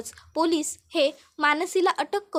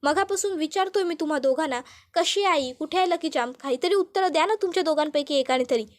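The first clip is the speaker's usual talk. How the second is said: raised, insistent demand for answers; mild shout; 2 semitones higher than usual. Acted. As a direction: brother losing patience, mildly raised voice. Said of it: "Tejas जोरात ओरडतो".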